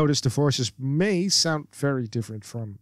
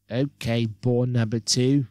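sarcastic. Acted. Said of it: "she says sarcastically".

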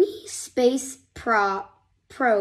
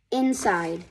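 ordinary delivery, nothing marked

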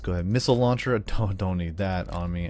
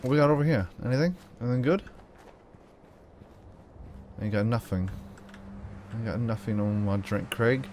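badly faked British accent; terrible British accent; 3 dB quieter than usual. Gamer searching for loot, terrible British accent. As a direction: put on a hokey British accent. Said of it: "A terrible British accent".

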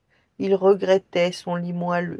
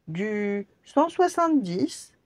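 slow giant voice; 5 semitones higher, slower than usual. Acted. Giant answers shoe seller.

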